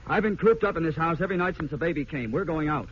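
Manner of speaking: he's had enough and says so; fed-up complaint. Acted. Husband fed up, insists.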